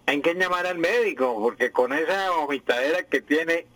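mimicking an overdone nasal Santander accent; lightly mocked nasal soap-opera voice; exaggerated nasal. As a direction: imitate the actress, talking through the nose. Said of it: "es una voz nasal donde se exagera demasiado".

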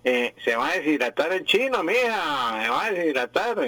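mimicking an overdone nasal Santander accent; lightly mocked nasal soap-opera voice; exaggerated nasal. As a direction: imitate the actress, talking through the nose. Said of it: "es una voz nasal donde se exagera demasiado".

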